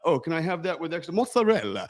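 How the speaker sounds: "mozzarella" in a sudden cartoon-chef Italian accent; mock Italian accent. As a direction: laughingly slip into fake Italian on the last word. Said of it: "Italian ones that really get you".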